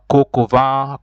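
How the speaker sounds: "coq au vin" said kok o va in French; teacher models French "coq au vin"; French pronunciation. Shown as a demonstration. Teacher naming a French dish in French. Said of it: "Coq au vin means".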